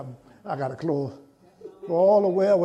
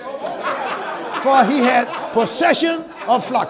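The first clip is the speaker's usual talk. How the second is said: reading aloud with the congregation; 5 semitones higher, 4 dB louder, much slower than usual. Shown as a demonstration. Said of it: "read it with me".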